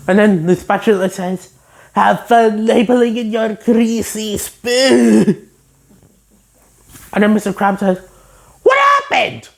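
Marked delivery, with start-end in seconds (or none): 1.9-5.5 slow haughty taunt; sneering spatula. Retold or imitated. The spatula taunting SpongeBob, slow and haughty. 8.6-9.5 much higher startled yell; shocked Mr. Krabs. Retold or imitated. Mr. Krabs finding SpongeBob hurt, high shocked yell.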